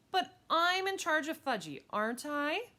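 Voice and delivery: high, loud insisting; bossy girl. Acted. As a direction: insist on being the boss. Girl insists she is in charge.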